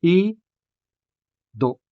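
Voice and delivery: I-do broken into syllables; syllabicated ido. Shown as a demonstration. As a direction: say I, break, then do. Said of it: "Ido is syllabicated like this".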